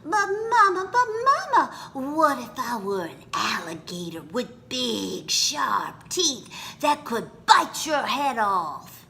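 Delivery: put-on small child begging mama, then a spooky hush; pleading child. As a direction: play the child testing mama's love.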